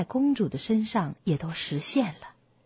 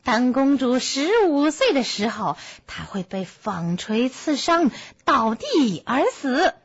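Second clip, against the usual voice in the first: angry witch's curse, raised in pitch; furious shout; 5 semitones higher, 3 dB louder than usual. A narrator's reading. Uninvited witch cursing the baby princess at the banquet, furious shout. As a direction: cry out the curse, drawing out the final words. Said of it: "她怒气冲冲地大叫道".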